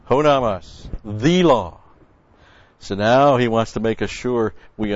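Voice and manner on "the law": "the" said as a drawn-out THEE before "law"; stress on THE. Shown as a demonstration. Teacher pointing out the definite article, stress on THE. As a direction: lean on THE in "the law". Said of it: "we got the definite article with it".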